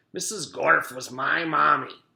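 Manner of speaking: put-on a donkey with a sore throat and French accent; squawk. A narrator's reading. Mister Gorf real voice.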